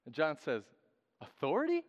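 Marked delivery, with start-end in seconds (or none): 1.2-1.8 a high, amused disbelieving "Authority?"; incredulous echo. Acted. John scoffing at the priests' question about authority, amused. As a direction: toss the word back as if it were absurd.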